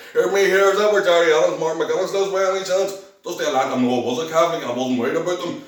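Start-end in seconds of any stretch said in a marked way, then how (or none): 0.1-3.0 louder, high-pitched provocation, retold; cocky challenge. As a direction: raise the voice and challenge them boldly. Acted provocative question to loyalists.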